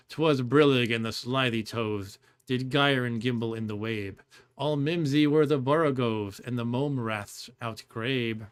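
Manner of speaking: slow, deliberate poem reading; poem recitation. Acted.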